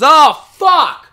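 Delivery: high, loud mock alarm; fake panic. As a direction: ham up a fake car emergency. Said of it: "goes outside and goes".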